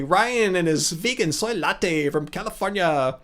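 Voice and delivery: lightly put-on California accent; soy latte impression. Streamer showing off an impression, light California accent. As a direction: lay on a slight California accent. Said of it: "the only good one is the soy latte".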